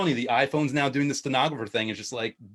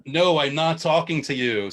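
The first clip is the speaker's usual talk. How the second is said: slow, louder, firm correction; mock telling-off; 3 semitones higher, 5 dB louder, slower than usual. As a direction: scold the smart speaker in mock annoyance. Telling off an interrupting Alexa.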